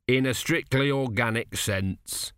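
slow, slightly muffled voice. Acted. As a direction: speak as if face close to a corpse. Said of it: "his voice slightly muffled".

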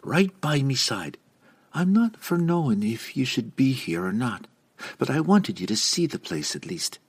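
lightly voiced young dwarf woman; dwarf lass voice. A narrator's reading. Canterbury's dwarven voice continues.

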